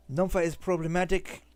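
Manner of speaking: put-on light German accent on the character. Streamer voicing a game engineer, light German accent. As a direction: read him with a hint of German. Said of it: "I give him a German accent".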